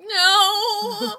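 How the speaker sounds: high loud sing-song no; shouted no. Retold or imitated. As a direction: belt out a playful no. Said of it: "I'm like".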